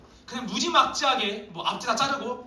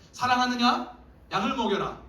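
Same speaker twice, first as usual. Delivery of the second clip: louder, pressing question; insistent Jesus; 3 semitones higher, 5 dB louder than usual. Acted. Jesus pressing Peter again, insistent and louder. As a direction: keep pushing him with the question.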